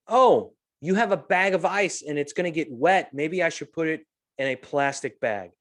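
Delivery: a hint of a sweet teenage helper; imitating the bagger girl. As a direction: lightly play the eager teen bagger. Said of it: "that's how she said it".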